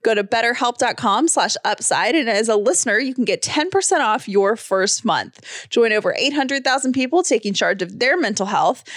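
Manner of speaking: measured podcast sponsor read. Acted. Podcaster urging listeners to sign up for counselling, ad read. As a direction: deliver it as a polished host-read ad.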